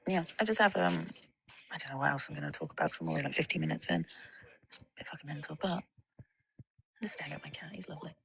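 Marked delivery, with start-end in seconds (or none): 4.7-8.2 hushed aside. Real, not acted. Watching her cat nearby.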